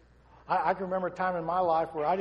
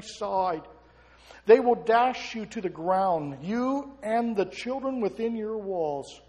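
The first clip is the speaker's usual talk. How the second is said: raised, weighty prophetic declaration; prophetic warning; 3 semitones higher, 5 dB louder than usual. A narrator's reading. Preacher reading Jesus' warning to the city, prophetic. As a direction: declare it over them, stretching the final phrases. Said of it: "began to prophetically speak over them".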